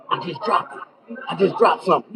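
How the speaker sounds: imitating a jittery addict searching for a dropped rock; mock crackhead. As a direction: act out a frantic crackhead patting the floor.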